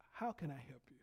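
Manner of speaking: low, hushed offer of help; very quiet. Retold or imitated. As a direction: say it softly, almost under your breath. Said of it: "And say it very quietly".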